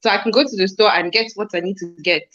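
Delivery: lightly put-on Nigerian accent, a nagging parent; a hint of a Nigerian parent complaining about shopping money; mock Nigerian accent. Nigerian accent as a nagging parent demanding money for the chicken. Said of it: "That's good".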